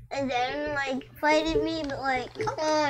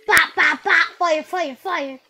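louder mock gunshot sounds, bop bop; gunfire noises; 8 dB louder, slower than usual. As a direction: imitate the shots punchily. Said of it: "And he's like".

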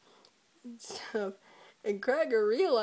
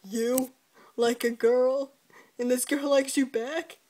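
louder, scoffing disbelief; mocking disbelief; 6 dB louder than usual. Dad scoffing at his son's crush, loud mock disbelief. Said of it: "He's like".

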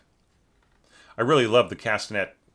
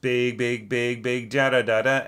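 big, loud scatted phrase; loud terraced demo; 3 semitones higher, 4 dB louder than usual. Shown as a demonstration. Teacher scatting the loud terrace for the student. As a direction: belt it out big. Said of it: "terrace your dynamics".

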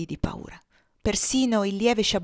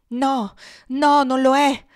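louder, higher, with real force; forceful exclamation; 5 semitones higher, 8 dB louder, slower than usual. A narrator's reading. Amira protests loudly that India is not her friend's home. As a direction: cut her off firmly and loudly. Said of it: "esclamò Amira con forza".

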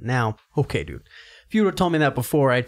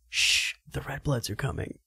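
hushed ghost voice; 7 dB quieter than usual. Retold or imitated. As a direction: shush the others and warn them. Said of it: "shush all the other ghost homies".

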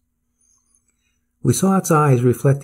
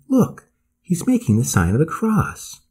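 raised-pitch exclamation; crying out; 7 semitones higher than usual. A narrator's reading. Narrator alerts the Swede to the boatman, high cry. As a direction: urge a companion to look, voice pitched up. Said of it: "I cried".

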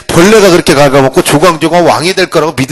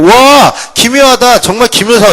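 higher, slow, hammed-up awe of a foolish king; teacher mocks the king gasping at the pun, slow and higher; 5 semitones higher than usual. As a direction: play the king as a gullible fool, drawn out. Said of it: "이렇게 할 것 같아?".

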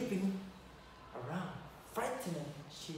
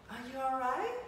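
higher, anxious call; worried girl rushing to him; cried out; 8 semitones higher, faster than usual. Acted. Clara rushes to the fallen prince, higher and anxious. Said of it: "she cried".

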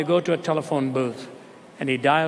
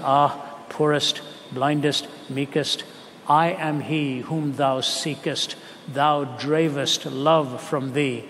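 poem recital. Acted. Recites Francis Thompson's poem.

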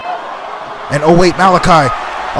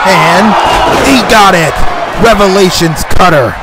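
louder, punchy finisher call; loud move call; 3 dB louder than usual. Real, not acted. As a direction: shout the finisher as it lands. Finisher hits.

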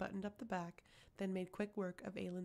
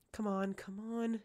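panting; 3 dB louder, slower than usual. Acted. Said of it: "she panted".

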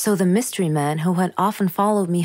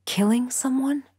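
shocked gasp; 5 semitones higher, 3 dB quieter than usual. Acted. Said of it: "And I gasped".

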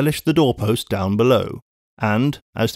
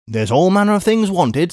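lightly raised brisk spinster voice; a brisk English housekeeper calling out; a hint of a bustling maid; Miss Pross; 6 semitones higher than usual.

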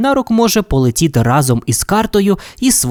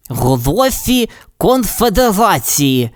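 sad; 6 semitones higher, slower than usual. Acted. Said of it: "сумно промовив він".

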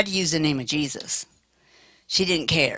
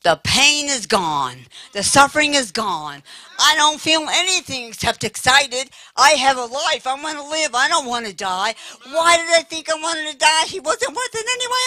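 retold joyful yelling; 10 semitones higher than usual. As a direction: voice soaring much higher, elated cries. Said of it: "she starts yelling out loud".

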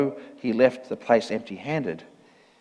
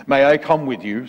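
louder, lightly voiced demon; a touch of spat-out demand; spitting demon; 6 dB louder than usual. A narrator's reading. Demon asks to follow the priest, mildly spat. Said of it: "spat the demon".

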